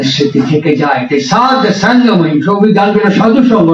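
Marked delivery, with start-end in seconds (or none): 1.2-2.4 "সাধ সঙ্গময়ী" with সাধ ending on the consonant, no u; correct pronunciation. Shown as a demonstration. Speaker gives listeners the proper wording of the phrase, correctly pronounced. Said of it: "উচ্চারণটা ভুল". 3.1-3.7 "সাধু সঙ্গ" with a final u on সাধু; mispronunciation demo. Shown as a demonstration. Speaker quotes how a poet sings it, mispronounced "সাধু সঙ্গ". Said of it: "উচ্চারণটা ভুল".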